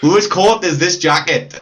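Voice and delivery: slow Welsh saying; drawn-out Welsh demo; Welsh accent. Shown as a demonstration. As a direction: savour the Welsh phrase slowly. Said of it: "that's just Welsh".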